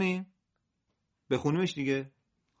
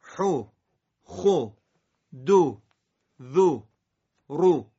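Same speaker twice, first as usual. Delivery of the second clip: Arabic accent; much slower than usual. Shown as a demonstration.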